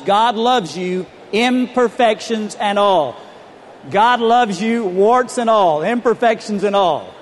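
slow, emphatic repeat-after-me line; congregation prompt. Shown as a demonstration. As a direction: lead the crowd in saying it. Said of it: "So turn to your neighbor and tell him".

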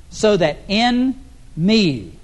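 IN and ME slowly set apart; slow, weighty emphasis on "in", then "me"; stress on IN ME. Real, not acted. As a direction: underline "in" and "me" with the voice. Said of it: "underline the next two little words".

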